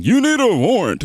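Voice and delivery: high mocking screech of a protester; mock scream. Commentator mocking the activist's demand, high mock scream.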